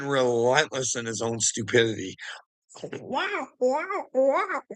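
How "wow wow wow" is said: squeaky falsetto wow wow wow; a cartoonish high-pitched wow; high mock wow. Reacting to Trump clip with a shrill falsetto wow.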